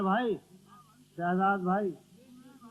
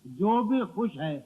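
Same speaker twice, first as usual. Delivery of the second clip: measured mushaira recital, each line set apart; ghazal recitation; 5 dB louder than usual. Acted. Poet reciting a couplet to the gathering, ghazal recitation. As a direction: recite verse for an audience.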